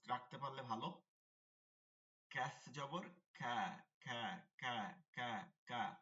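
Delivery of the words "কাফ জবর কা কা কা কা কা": soft, light k on কা, drawn slowly; very soft kaf. Shown as a demonstration. Teacher drilling light kaf for pupils, very soft. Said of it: "একদম নরম".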